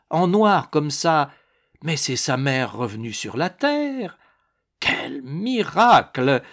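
a touch of theatrical wonder, swooping on the exclamations; lightly voiced gushing duchess, amazed. Duchess exclaiming over mother and daughter's likeness, mildly gushing amazement. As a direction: marvel aloud, lightly playing an effusive duchess. Narrator plays the marvelling duchess.

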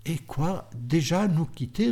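sorrowful plea to stay; with sadness. Acted. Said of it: "avec tristesse".

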